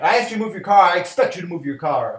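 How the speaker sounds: stern demand. Retold or imitated. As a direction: lay down the law like a bossy landlord. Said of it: "So he's like".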